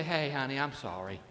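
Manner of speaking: a meek apology to his wife; husband humbly apologising to his wife, hushed; tender sorry. Retold or imitated.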